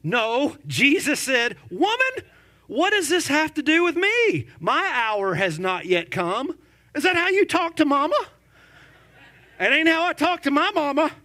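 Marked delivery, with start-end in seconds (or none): 1.7-6.6 sharp retort. Acted. Quotes Jesus to his mother. 7.0-11.1 high, fast, loud disbelief; scandalized rhetorical question, quick and high; mock-shocked about mama; incredulous aside. Real, not acted.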